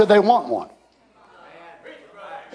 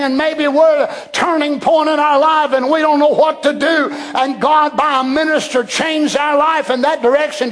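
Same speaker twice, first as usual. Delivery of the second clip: rising preaching. Acted. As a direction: preach it home to the congregation. Preacher builds to climax.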